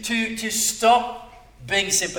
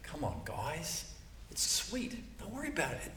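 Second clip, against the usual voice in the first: offhand, dismissive and much softer; mock callous, quiet and offhand; matter of fact; 2 semitones lower, 17 dB quieter than usual. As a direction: brush it off casually. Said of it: "just matter of fact".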